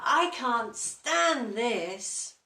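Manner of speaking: slow, loud and exasperated; slow, loud, weary grumble; fed-up complaint. Acted. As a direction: drag it out like a sleepless grumpy bear. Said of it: "said Mister Bear".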